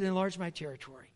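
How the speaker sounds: soft, tired, fading plea; a worn-out man praying quietly; weary prayer. Retold or imitated. Lonely traveller praying softly, tired and worn out. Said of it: "He said".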